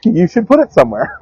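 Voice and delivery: grandmother's demand. Retold or imitated. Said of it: "grandmother retold".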